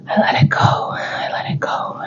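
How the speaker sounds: breathy, tearful whisper; real crying while letting the memory go. Real, not acted. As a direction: let the tears break through the words. Releasing painful memory, crying.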